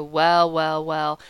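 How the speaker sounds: a hint of a brash film mogul; lightly voiced American producer. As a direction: drawl it out sizing him up. Mister Cram, American film man.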